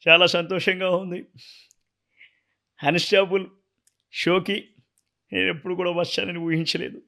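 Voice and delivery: lightly voiced politician giving thanks; political speech impression. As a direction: address the stage with grateful formality. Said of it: "Chandrababu సార్ది imitate చేస్తా".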